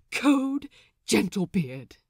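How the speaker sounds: bursting out loud with the news; explosive announcement. Acted. Lucius bursting into the galley, explosive shout. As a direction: blurt it out like it can't be held. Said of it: "the words explode out of him".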